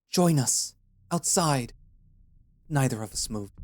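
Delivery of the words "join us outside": much higher, louder commanding shout. A narrator's reading. Zahan, outside the hut, shouts for Aya and Tarki to come out. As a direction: call them out like a cult leader. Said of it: "Zahan's shout bled through the walls".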